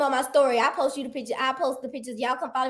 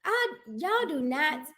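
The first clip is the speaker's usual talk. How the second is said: each word dragged out, softer; slow exasperated scolding; 6 dB quieter, much slower than usual. Real, not acted. Host scolding friends who guessed wrong, slow and exasperated. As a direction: spell it out slowly to people who won't listen. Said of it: "y'all don't listen".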